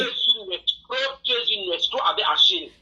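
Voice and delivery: strained high accusing voice; angry high shouting. Real, not acted. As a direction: accuse at the top of the voice. Caller accuses host.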